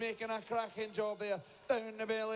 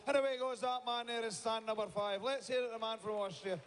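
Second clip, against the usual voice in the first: crowd hype; 3 semitones higher than usual. Real, not acted. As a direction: lift the crowd as he finishes. Announcer hyping crowd.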